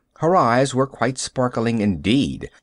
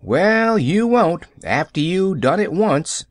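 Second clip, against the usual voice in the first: sour prediction; 6 semitones higher than usual. A narrator's reading. Nancy sourly warning Pollyanna about Mrs Snow. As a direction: warn her it'll be no fun. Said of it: "predicted Nancy sourly".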